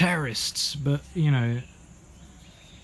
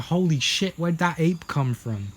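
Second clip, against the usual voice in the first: higher, startled imitation; mock shock; 5 semitones higher than usual. Bystander reacting to the giant ape, mock shock. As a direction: play at being stunned by a sudden sight.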